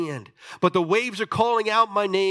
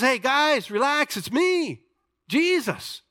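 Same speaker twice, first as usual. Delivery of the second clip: calm Jesus; 9 semitones higher, slower than usual. Acted. Jesus calming frightened disciples.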